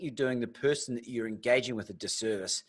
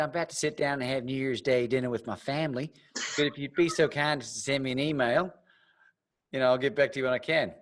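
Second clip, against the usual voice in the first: put-on Southern accent. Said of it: "I love that accent you do".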